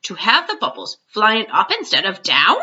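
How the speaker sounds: a light giant voice, earnest and scolding; a hint of a big friendly giant explaining; lightly voiced BFG.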